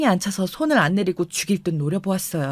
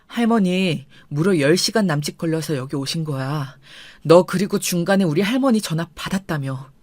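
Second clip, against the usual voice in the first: low, controlled anger; husband reining in his temper at his wife; held-back anger; 4 semitones lower than usual. Retold or imitated. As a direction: swallow the fury and speak low. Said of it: "화를 겨우 추스리며".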